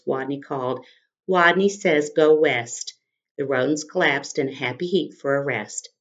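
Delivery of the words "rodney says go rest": strong voice. Acted. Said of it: "In a voice so strong".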